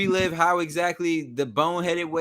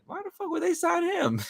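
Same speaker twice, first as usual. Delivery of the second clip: retold outburst. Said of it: "I said".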